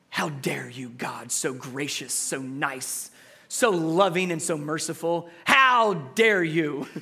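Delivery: sarcastic how dare you, dropping low then punched; hammed-up accusing tone; sarcastic complaint at God's kindness; mock indignation. Mock outrage at gracious God.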